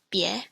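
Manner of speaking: beer with a rising tone; toned bie. Shown as a demonstration. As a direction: lift beer on the tone. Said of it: "Or with a tone".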